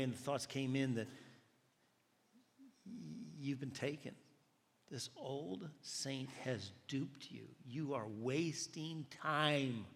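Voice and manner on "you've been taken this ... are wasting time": slow, deliberate accusation; accusing inner voice. Retold or imitated. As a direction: draw out each word as a tempting doubt. Voicing the enemy's accusing thoughts.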